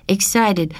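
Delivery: a hint of Rosa's accent as she copies Excited; Rosa repeating the word. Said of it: "the man helped out".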